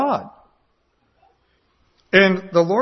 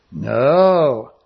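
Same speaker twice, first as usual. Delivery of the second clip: put-on kids' blunt answer; 2 semitones lower, 6 dB louder than usual. Children's answer voiced.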